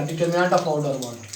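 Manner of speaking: determinant of order one said slowly and evenly, word by word; slow clear term. Shown as a demonstration. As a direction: spell out the term calmly for the class. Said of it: "क्या कहलाएगा". (धीमे, साफ़ बोला गया शब्द)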